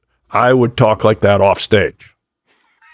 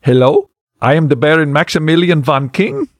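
a light goofy Belgian accent; fake Belgian accent; 2 semitones higher than usual. Shown as a demonstration. Asked to show his old fake Belgian accent, lightly done. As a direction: play the phony baron, hamming a little. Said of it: "Let's hear the accent a little bit".

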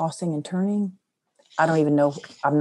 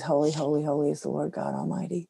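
hushed prayer; 6 dB quieter, faster than usual. Retold or imitated. Retold prayer at hospital bed.

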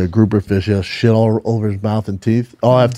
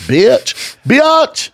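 squeaky mock taunt; 12 semitones higher than usual. Friend squeals the insult while teasing the nut joke. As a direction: pitch shooting up on bitch, teasing.

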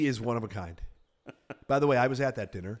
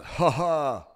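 imitated laugh; 3 dB louder than usual. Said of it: "the Seth Rogen thing going on when he laughs".

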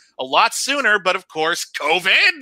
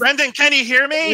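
calling out far; 4 semitones higher than usual. Pretend. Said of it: "I know you're really far away".

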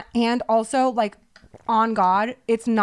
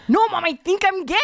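imitating Pete Davidson telling his mom he's gay; Pete Davidson impression; 8 semitones higher than usual. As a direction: play Pete as a whiny eleven-year-old pleading with mom. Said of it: "Let's hear your Pete Davidson".

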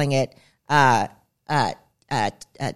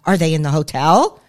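freaking out; 2 semitones higher, 5 dB louder than usual. Retold or imitated. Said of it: "I was flipping out".

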